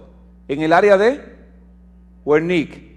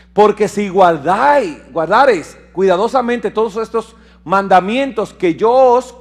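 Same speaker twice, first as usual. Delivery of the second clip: louder, measured proclamation; preaching scripture; 4 dB louder than usual. Acted. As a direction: read the promise with weight. Long scripture reading.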